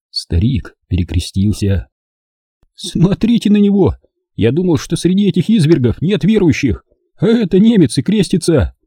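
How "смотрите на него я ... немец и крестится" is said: higher, amazed exclamation; surprised. A narrator's reading. Zvarka amazed the German crosses himself, higher surprised voice. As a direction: marvel at the praying German. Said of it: "удивился Зварька".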